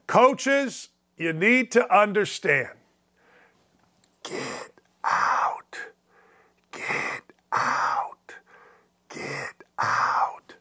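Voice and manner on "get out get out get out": whispered, softer and softer get out. Pretend. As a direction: breathe it like a creepy whisper. Segment jingle whisper.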